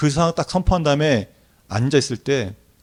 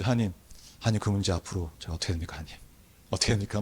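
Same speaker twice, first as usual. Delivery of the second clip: lower, much softer pleading; hushed anxious prayer; 5 semitones lower, 8 dB quieter, faster than usual. Retold or imitated. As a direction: ask God quietly, worried.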